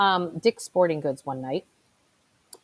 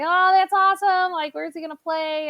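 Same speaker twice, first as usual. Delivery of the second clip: bright, high chit-chat, pitched way up; a friendly, raised-pitch chit-chat voice; chatty excitement; 9 semitones higher than usual. Retold or imitated. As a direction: gush to a stranger about his son's football. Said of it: "and I'm like".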